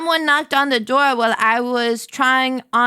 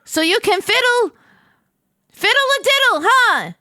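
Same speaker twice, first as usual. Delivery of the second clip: sarcastic; 6 semitones higher than usual. Acted. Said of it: "I shouted sarcastically".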